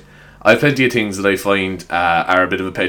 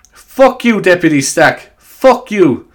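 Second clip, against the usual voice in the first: higher, louder hammed-up parliamentary jeer; mock heckle; 8 semitones higher, 5 dB louder, slower than usual. Podcaster mimics a deputy's heckle, mock shout. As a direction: fling it across the chamber, half laughing.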